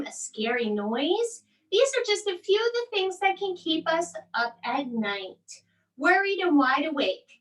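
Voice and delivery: lively storybook read-aloud; reading to children. A narrator's reading. Mom reads a bedtime story to her boys, animated and expressive.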